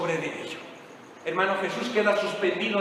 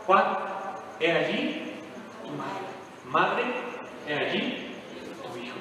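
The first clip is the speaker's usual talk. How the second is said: faint dying words; 6 dB quieter, slower than usual. Acted. Dying Jesus speaks to John.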